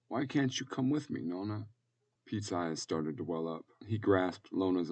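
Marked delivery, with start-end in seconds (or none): 0.1-1.7 put-on pleading child. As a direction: plead softly, close to tears. Tearful child pleads with Nona.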